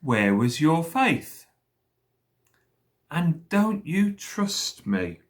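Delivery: slow, measured questioning; calm, drawn-out storybook question. A narrator's reading. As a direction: ask gently and unhurriedly. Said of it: "very calmly he said to them".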